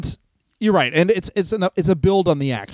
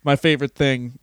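imitating George; 3 semitones lower than usual. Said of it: "call her up and say".

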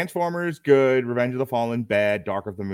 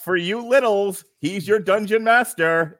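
announcer; 8 semitones higher, 6 dB louder, slower than usual. Acted. Re-introducing guest, slower.

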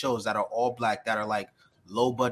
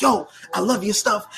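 put-on higher, louder young fan voice; imitating the fan; 8 semitones higher, 5 dB louder than usual. The African kid jumping on the live, excited. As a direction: lightly voice the eager kid. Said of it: "he was just like".

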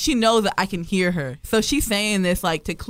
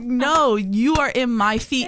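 "are" leaned on, each word slower; stress on ARE; 2 semitones higher, much slower than usual. Retold or imitated. Traveler insists on her own seat, stress on "are". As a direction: insist firmly, hitting "are".

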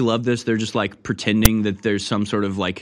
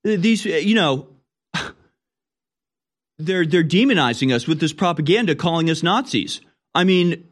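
lightly voiced, higher whining Nazi in regalia; mock Nazi skit; 5 semitones higher than usual. A commentator voices a skit Nazi whining he is called a Nazi, mock indignant and higher. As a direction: play a dude in full Nazi gear complaining about propaganda. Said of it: "just being like".

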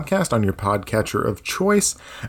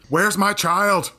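worried mother voice; 6 semitones higher, much slower than usual. Acted. Voicing Eloise's mother.

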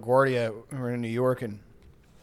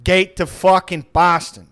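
put-on drunk yell; 7 dB louder, slower than usual. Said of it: "he's like".

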